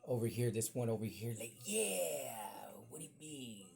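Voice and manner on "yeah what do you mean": whispered innocence. Retold or imitated. Kid playing dumb to principal.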